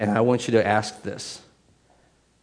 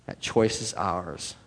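quieter echo; 6 semitones lower, 6 dB quieter, slower than usual. Shown as a demonstration.

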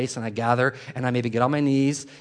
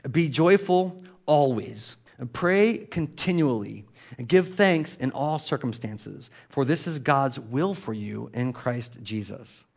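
slow solemn scripture reading; much slower than usual. Shown as a demonstration. Preacher reading First Thessalonians to the church, slow and solemn. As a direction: read each verse slowly and reverently. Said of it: "here's the word".

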